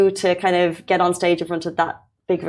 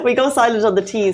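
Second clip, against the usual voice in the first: Irish accent. Shown as a demonstration. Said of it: "she's Irish".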